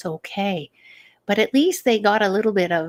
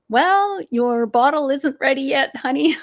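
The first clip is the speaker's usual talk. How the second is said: put-on higher, sing-song baby talk; 5 semitones higher, 4 dB louder than usual. Mom telling her crying newborn the bottle isn't ready. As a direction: soothe the newborn lightly.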